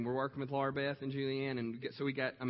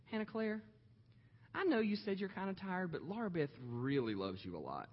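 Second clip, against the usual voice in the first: sweet and polite. Retold or imitated. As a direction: gently sweet-talk the little girl. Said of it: "really sweet and polite and kind".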